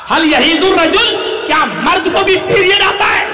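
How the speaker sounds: acted outrage at an absurd question; incredulous shout. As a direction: cry out the question in disbelief. Retold incredulous reply, at peak.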